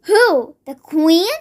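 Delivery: put-on a girl aghast at the news; cried aghast. A narrator's reading. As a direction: gasp it out in disbelief. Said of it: "Sophie cried aghast".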